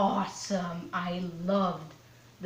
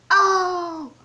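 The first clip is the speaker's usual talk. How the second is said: high, loud drawn-out oh; big teasing whoop, pitched up; hyped-up burn reaction; 9 semitones higher, 8 dB louder than usual. Pretend. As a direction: crow it like a crowd after an insult. Hyping up the roast.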